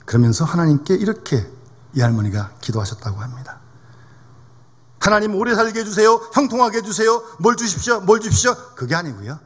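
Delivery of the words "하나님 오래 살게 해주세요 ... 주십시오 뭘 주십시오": mock petition, reeled off item by item; demanding prayer. Preacher mimics asking God for everything, insistently. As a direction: rattle off requests like a wish list.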